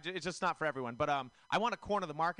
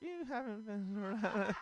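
laughing retort; 6 semitones higher than usual. Retold or imitated. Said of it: "And I was like".

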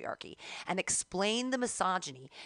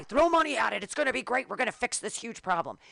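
mock enthusiasm; 2 semitones higher, 3 dB louder than usual. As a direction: parody an eager rush to help. Voices excited response to men's problems.

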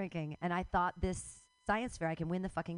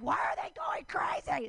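mocking outsiders; 9 semitones higher than usual. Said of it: "And they're like".

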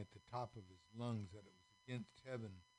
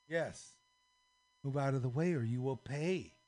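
loud, higher menacing order; loud threat; 3 semitones higher, 7 dB louder than usual. Acted. Officers threatening the cubes, loud threat. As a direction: threaten them with full voice.

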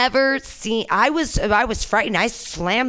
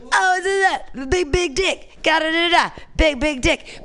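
mocking taunt; 7 semitones higher than usual. People taunting her everywhere.

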